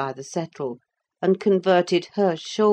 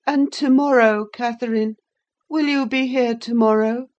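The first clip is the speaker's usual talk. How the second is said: high, louder anxious plea; clinging boy; 8 semitones higher, 5 dB louder than usual. A narrator's reading. Linton begging Catherine to return, high and anxious. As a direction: hold on to her. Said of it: "asked young Heathcliff".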